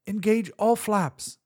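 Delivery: slow, loud command; shouted order. Acted. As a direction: bark the order. Captain ordering in crisis.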